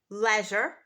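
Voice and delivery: leisure with a short e, LEZH-er; British leisure. Shown as a demonstration. Teacher models British leisure. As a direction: say leisure like measure. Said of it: "in British English, we say".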